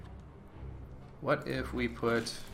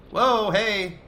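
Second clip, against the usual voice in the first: startled shout; 10 semitones higher, 9 dB louder than usual. Real, not acted. Sudden goblins appear.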